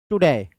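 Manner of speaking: "टुडे" with a light टु, weight on डे; stress on DAY. Shown as a demonstration. Teacher shows students the word, stress on second syllable of "टुडे". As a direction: say "टुडे" easing into a stressed, falling डे. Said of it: "आराम से बोलना है".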